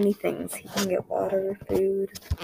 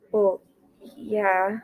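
tight with shock; 6 dB louder than usual. Acted. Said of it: "voice tight with shock".

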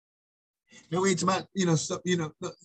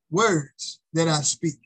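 "words" punched, then the rest falls away; stress on words; slower than usual. Shown as a demonstration. Preacher drilling a verse into the congregation, stress on "words". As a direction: lean hard on "words". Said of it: "Trying to get you the emphasis on".

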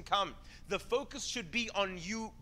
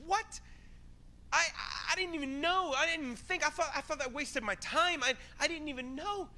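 amazed disbelief; 7 semitones higher than usual. Retold or imitated. Stunned believer in heaven.

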